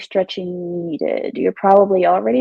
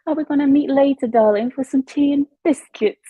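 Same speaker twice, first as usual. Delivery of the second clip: posh Brit voice; 5 semitones higher than usual. Retold or imitated. Posh Londoner voice again.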